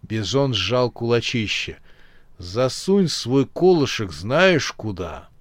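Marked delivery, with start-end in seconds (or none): 2.4-5.3 huge snorting bison. Acted. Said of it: "проревел Бизон".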